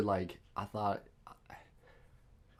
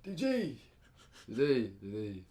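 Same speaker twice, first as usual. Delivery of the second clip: calling out for people. Retold or imitated. Retelling calling for help while fading, acted calling out. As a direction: call a friend's name, acting out distress. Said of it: "trying to call out for people".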